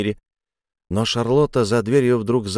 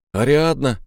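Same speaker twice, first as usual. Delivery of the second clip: calling out loud; 4 semitones higher than usual. A narrator's reading. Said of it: "громко позвал я".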